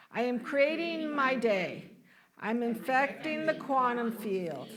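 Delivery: deliberate affirmation for others to repeat; leading group recitation. Shown as a demonstration. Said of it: "Why don't you say this with me".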